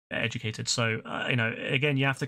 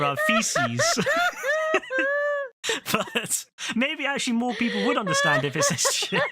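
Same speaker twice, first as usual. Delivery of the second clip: laughing through the words; can't stop giggling while listing words; words half-swallowed by laughter; 9 semitones higher than usual. Real, not acted. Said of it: "just so hysterical to me".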